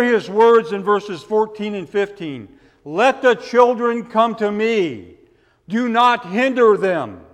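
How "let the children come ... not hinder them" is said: indignant Jesus. Retold or imitated. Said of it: "Do you hear the emotion".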